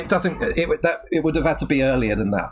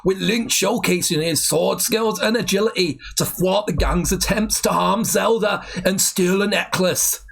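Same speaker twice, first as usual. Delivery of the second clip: shaky-skilled mock Geordie narration; attempted Geordie accent. Taking over the Biker Grove script, attempted Geordie accent. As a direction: read it out in an amateur Geordie accent. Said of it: "It's not that I've not heard a Geordie accent".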